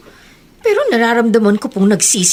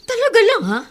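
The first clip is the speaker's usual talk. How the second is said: 1 sarcastic doubt; 13 semitones higher, faster than usual. Acted. Sister doubts the excuse.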